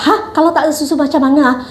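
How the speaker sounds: high startled "hah", then a quick question; retold bewilderment. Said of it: "And I was like".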